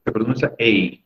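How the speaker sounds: ei said as a gliding English diphthong; English A sound. Shown as a demonstration. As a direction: glide ei from e to i. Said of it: "La A".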